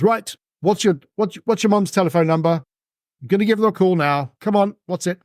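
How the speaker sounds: stern security guard. Acted. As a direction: bark at the kid for the number. Security guard grabs kid.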